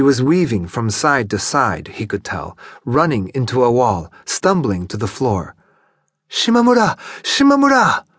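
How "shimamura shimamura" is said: calling out a name, much higher and louder; piercing high call. Acted. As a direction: drunk woman crying out for her man down the hall. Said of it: "she called in a high voice".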